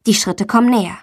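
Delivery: plain reading voice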